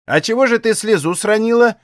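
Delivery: pry for the secret; prying old aunt. A narrator's reading. Nosy aunt quizzing tearful Aksinya. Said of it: "допытывалась любознательная старуха".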